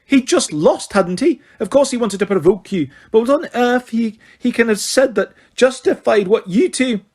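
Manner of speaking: high, loud indignant scolding; angry Scottish professor. Acted. McGonagall scolding Harry and George, indignant. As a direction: berate them without pause.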